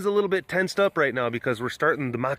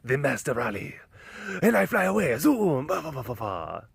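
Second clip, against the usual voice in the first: mock Zorro. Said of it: "like, Zorro move".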